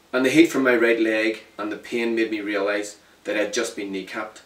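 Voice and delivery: steady first-person storytelling; story narration. A narrator's reading. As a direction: tell it plainly, letting it land.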